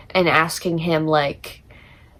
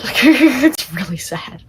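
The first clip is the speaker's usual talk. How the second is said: laughing; 6 semitones higher, 3 dB louder, slower than usual. Real, not acted. Laughs while saying it.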